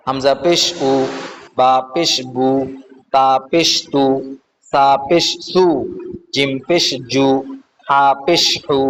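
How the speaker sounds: measured sing-song spelling drill, last vowel held; recitation drill. Shown as a demonstration. Teacher reciting Arabic letters for learners, sing-song recitation drill. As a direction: chant each letter, then stretch the syllable.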